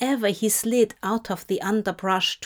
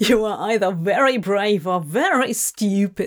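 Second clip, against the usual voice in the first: said through a laugh, laughing; 2 semitones lower, 4 dB louder than usual. Crawley, in awe of Aziraphale, speaks to him; laughing. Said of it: "Crawley laughed".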